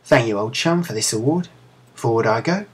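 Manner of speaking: put-on a light Cockney accent, rising at each phrase end; Cockney chimney sweep. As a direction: chirp it like a London chimney sweep. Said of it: "made her sound like a chimney sweep".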